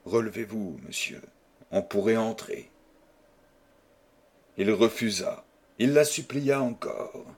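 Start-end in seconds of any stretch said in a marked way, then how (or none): 0.0-2.7 quiet, calm and composed. A narrator's reading. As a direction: say it calmly and softly, fading at the end. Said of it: "Elle dit tranquillement".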